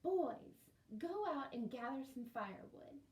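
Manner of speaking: a loud call to the brothers to fetch firewood; bossy big sister. Acted. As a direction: call the boys like the eldest sister in charge. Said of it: "Sadie said".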